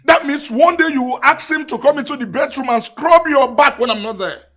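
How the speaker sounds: high, loud, outraged accusation; jealous tirade. Acted. Husband accusing his wife over the errand, jealous tirade.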